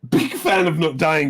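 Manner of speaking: chuckling through the words; laughing. Real, not acted. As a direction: say it while laughing. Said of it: "deadpan joke with laugh".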